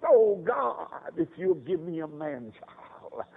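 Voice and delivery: high, slow imploring prayer; pleading cry. Acted. Childless woman pleading with God for a son, high tearful prayer. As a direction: beg God in a drawn-out cry. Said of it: "And she cried".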